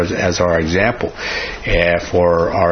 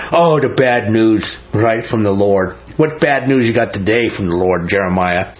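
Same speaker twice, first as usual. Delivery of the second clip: mocking. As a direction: taunt the prophet for his doom talk. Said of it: "They say it mockingly".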